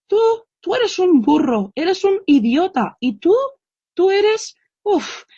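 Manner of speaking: high-pitched retold insults, not truly shouted; imitando: mock scolding. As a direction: act out an exasperated mother insulting her child. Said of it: "gritándoles, insultándolos". (regañina fingida, en tono agudo)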